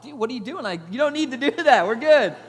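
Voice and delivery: loud, rising protest, half laughing; pleading with the handler, loud and laughing; alarmed protest. Retold or imitated. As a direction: tell him to stop poking the bull.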